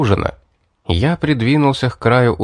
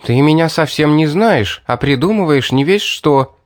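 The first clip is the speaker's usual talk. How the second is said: indignant; 4 semitones higher than usual. Acted. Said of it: "возмутилась Мэри".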